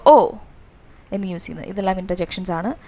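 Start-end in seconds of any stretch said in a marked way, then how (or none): 0.0-0.3 demonstrated mild surprise, louder; a raised, falling "oh" of surprise; surprised. Shown as a demonstration. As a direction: show surprise as a classroom example. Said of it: "surprise ആകുമ്പോൾ".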